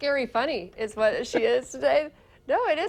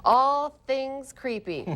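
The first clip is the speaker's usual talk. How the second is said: slow, drawn-out spooky tease; Halloween news tease; spooky intro; much slower than usual. Acted. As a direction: stretch it out like a haunted-house teaser.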